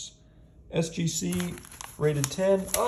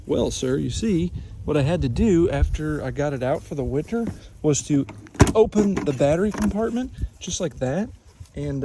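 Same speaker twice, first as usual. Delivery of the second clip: country man voice; 3 dB louder than usual. Acted. Skit answering as country man.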